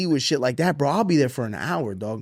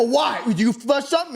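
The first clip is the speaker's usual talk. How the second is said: mock incredulous dad; 9 semitones higher than usual. Asking son, laughing.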